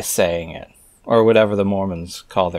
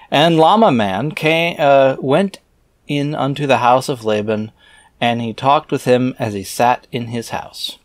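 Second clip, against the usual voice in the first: scripture reading; 4 semitones higher than usual. Acted. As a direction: intone the archaic words like a preacher. Reads scripture aloud.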